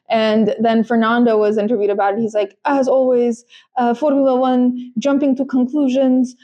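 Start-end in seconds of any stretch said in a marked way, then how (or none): 2.7-6.4 imitating a driver in a botched Russian accent; accidental Russian accent. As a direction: slip into a rough, hint-of-Russian accent. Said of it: "I don't know why he's Russian".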